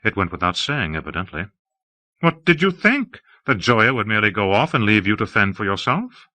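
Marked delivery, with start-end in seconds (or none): 2.2-6.3 Hawke, airy and effusive. Acted. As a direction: gush about the city grandly.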